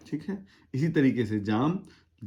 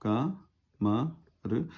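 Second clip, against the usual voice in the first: syllable by syllable; 5 dB quieter than usual. Shown as a demonstration. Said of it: "कमर लिखना होगा तो".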